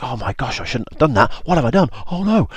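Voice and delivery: high-pitched, rising alarm; mock panic. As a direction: play a dismayed "what have I done". Moses panics after the killing.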